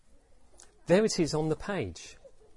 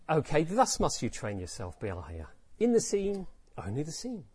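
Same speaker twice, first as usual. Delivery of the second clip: with humour. Shown as a demonstration. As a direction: say it with a teasing twinkle. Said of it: "maybe he responded with humour".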